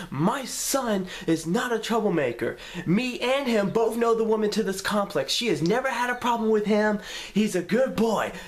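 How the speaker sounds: a mother defending her son, heated; going off. Retold or imitated. Mom chewing out the security guard, heated and high. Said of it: "going off on this guy and cussing him out".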